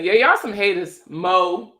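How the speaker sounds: Baltimore accent, punchy MO at the end; playful Baltimore-accented jab. Shown as a demonstration. Streamer answers viewers mocking her Baltimore accent, playful Baltimore accent. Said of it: "make fun of that B More accent".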